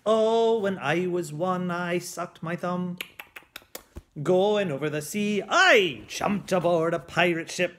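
lightly growled singsong pirate. Acted. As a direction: belt it like a jolly pirate. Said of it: "that crazy pirate voice".

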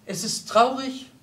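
mildly poetic declamation; reciting a poem. A narrator's reading. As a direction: recite it like verse. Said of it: "als rezitiere sie ein Gedicht".

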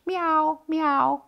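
high, happy meows; contented kitten meow; pleased kitten. A narrator's reading. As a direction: purr out a thank-you like a cat. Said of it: "says Kiki".

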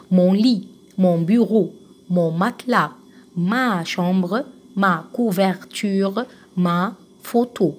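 slow word list from مون لي to ما فوتو, each pair set apart; repeat-after-me drill. Shown as a demonstration. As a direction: model each pair for the class, stretching ما before its noun. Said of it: "ننطقهم بقى تاني مع بعض". (نطق تعليمي من مون لي إلى ما فوتو، كل كلمتين لوحدهم)

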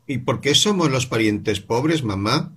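voz de niño más aguda y lenta; niño curioso. Acted. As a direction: pregunta insistente de niño. Voz del niño Paul. (niño preguntando a su mamá, más agudo)

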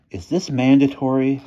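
high, timid little question; small voice. A narrator's reading. Reluctant boy asks about the night job, small voice. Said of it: "in a small voice".

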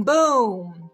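ordinary delivery

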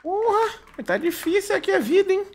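high-pitched laughing curse; laughing exclamation. Real, not acted. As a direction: burst out laughing in frustration. Frustrated gaming moment.

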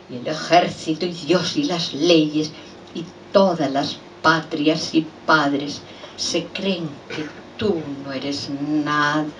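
measured poetic close, falling away; subdued final lines of a poem; poem recitation. Acted. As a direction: recite the ending slowly, letting it sink.

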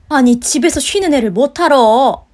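loud, affronted protest on her son's behalf; indignant objection. Acted. Mother-in-law defending her resting son, indignant. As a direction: object loudly, swelling to the end.

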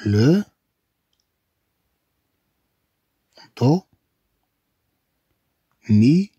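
each syllable drawn out alone; "لو دو مي" broken into separate syllables. Shown as a demonstration. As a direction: sound out "لو", "دو", "مي" with long pauses. Teacher sounds out syllables.

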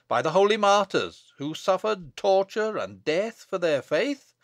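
solemn invocation building to a loud curse; cried-out curse. Acted. Abbot denounces Bess as a witch, building cry. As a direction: build phrase by phrase, slowing on the curse. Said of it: "cried Paslew".

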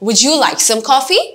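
gentle offer rising on coffee; teacher shows a polite coffee offer rising on coffee; polite rising question. Shown as a demonstration. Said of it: "খুব polite ওয়েতে আমি ask করছি".

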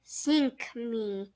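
understated groan of dismay; mild groan. A narrator's reading. Jake losing track of Polly, mild groan. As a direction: groan it lightly. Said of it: "groaned Jake".

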